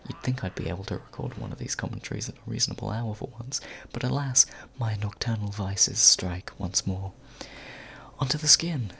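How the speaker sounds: close-mic whispered intro; ASMR whisper. Acted. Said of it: "ASMR Power Hour".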